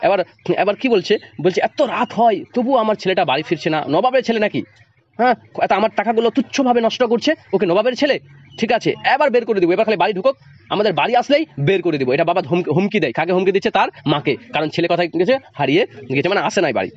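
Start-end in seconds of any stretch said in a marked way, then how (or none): 1.6-12.1 a raised, scolding father's threat; a hint of a furious father, pitched up; angry father. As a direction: play the fed-up father threatening to throw his son out. Teacher acts scolding father.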